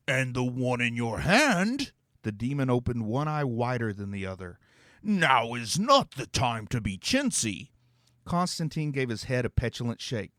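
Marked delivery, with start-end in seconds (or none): 0.1-7.7 demon voice. Acted. Demon to the heroes, pronouncing a dramatic prophecy. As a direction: intone it like a grand, theatrical demon.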